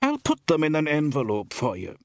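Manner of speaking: high, drawn woman's voice; high-pitched village shopkeeper. A narrator's reading. Woman shopkeeper offers a customer an envelope, high-pitched.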